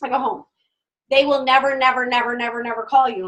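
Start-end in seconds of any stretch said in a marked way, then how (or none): 1.1-3.2 never hammered over and over; insistent warning; repeated never. Real, not acted. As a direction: pound every never. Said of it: "I'm telling you that".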